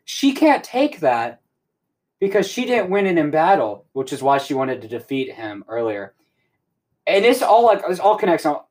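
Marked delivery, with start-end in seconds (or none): 0.0-3.8 imitated villain ruling; taunting villain. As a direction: stretch it out high, as a mocking villain. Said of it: "He goes".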